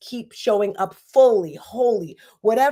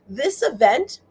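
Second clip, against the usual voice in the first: ordinary delivery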